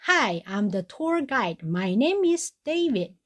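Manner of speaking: slow, drawn-out English tour-guide act; slow hammed-up tour guide in English; mocking tour guide. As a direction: parody the old man's stiff English intro. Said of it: "他就说".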